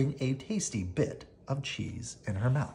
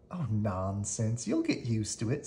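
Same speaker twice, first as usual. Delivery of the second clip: breezy; 3 semitones lower, 4 dB quieter than usual. Acted. Melissa dismissing fear.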